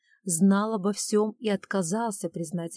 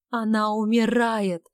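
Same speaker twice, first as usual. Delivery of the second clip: tearful cry; 3 semitones higher, 6 dB louder, slower than usual. Acted. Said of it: "Милея залилась слезами".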